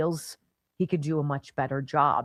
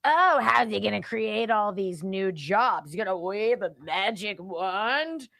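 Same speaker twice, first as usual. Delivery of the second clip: lightly voiced mocking Obama, slow; a hint of a drawling Obama; 2 semitones higher, slower than usual. Host imitating Obama doubting Trump, light slow mockery. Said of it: "what Barack Obama said".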